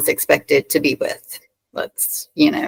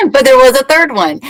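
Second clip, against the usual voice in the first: laughing; 9 semitones higher, 4 dB louder, faster than usual. Real, not acted. Admits a third relationship, laughing.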